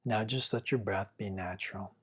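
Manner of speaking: calm, unhurried meditation guiding with long pauses; guided meditation. Real, not acted. Teacher guiding listeners to feel their breath, calm guided meditation. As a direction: gently lead the listener through following the breath, leaving long silences.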